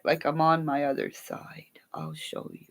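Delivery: soft unvoiced whisper. Real, not acted. Whispering to viewers while showing her jacket. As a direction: drop to a whisper.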